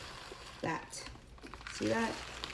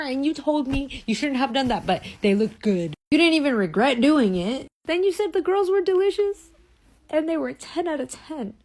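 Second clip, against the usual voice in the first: indignant accusation; 5 semitones higher than usual. Real, not acted. Continues accusing boyfriend.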